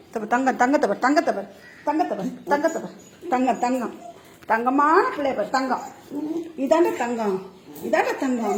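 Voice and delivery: soft cooing praise for a sweet pet; tender praise. Real, not acted. Owner praising her good pet, soft tender cooing. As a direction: coo over the good one softly.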